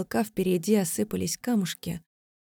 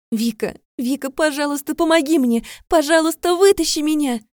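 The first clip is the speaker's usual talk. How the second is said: much higher and louder, building to frantic screaming; panicked plea; 8 semitones higher, 8 dB louder than usual. Acted. Buried girl begging Vika to pull her out, panicking. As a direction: beg for rescue, each word more frantic.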